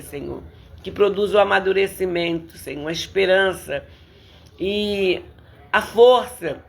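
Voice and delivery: earnest, steady prayer voice; heartfelt prayer, evenly paced; spoken prayer. Real, not acted. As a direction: pray aloud to the Lord for the congregation. Leads the congregation in prayer.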